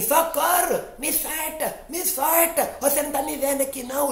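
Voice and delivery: very high, fast little voice crying for help; a tiny fish squealing to be let go; high panicky little fish; squeaky fish voice. Acted.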